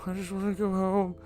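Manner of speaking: very high, eerie pleading voice; breaking female voice. Acted. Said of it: "the voice is breaking".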